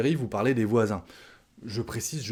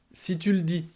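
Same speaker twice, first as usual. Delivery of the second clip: si tu le dis lifted much higher, falling from tu; model phrase; 7 semitones higher than usual. Shown as a demonstration. Teacher showing a dismissive si tu le dis, high-pitched. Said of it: "par les Français à l'oral".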